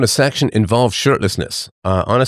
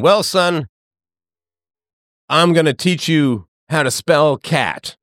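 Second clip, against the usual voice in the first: mock father; 3 semitones higher than usual. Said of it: "sitting you down and saying".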